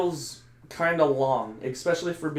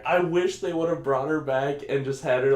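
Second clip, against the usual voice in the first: normal talking voice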